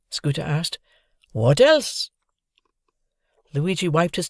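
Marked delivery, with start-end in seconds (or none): 1.3-2.1 higher, slow lament with a foreign lilt; tearful complaining concierge. A narrator's reading. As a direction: mourn the burned hotel. Luigi voice.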